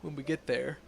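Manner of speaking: measured, serious investigator tone; stern Inquisitor voice. Acted. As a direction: read it like a grave inquisitor. Reads Inquisitor NPC dialogue.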